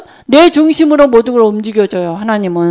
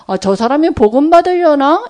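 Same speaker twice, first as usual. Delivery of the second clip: hopeful wondering; 3 semitones higher than usual. Retold or imitated. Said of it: "이렇게 보여져요".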